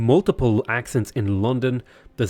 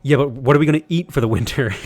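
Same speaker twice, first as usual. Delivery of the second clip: exasperated retort; 5 dB louder, faster than usual. Acted. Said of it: "And he's like".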